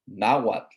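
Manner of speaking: Nahuatl said carefully as NAH-waht; clear naming. Shown as a demonstration. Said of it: "N A H U A T L".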